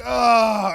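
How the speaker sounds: a loud retold wail of grief; hammed-up groan of distress; mock anguished cry. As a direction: cry out as if tearing your clothes. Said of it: "he's so upset".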